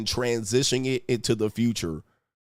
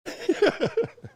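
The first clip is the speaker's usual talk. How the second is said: short high-pitched scoffing laugh; a quick squeaky laugh at the chat; high mocking laugh. Real, not acted.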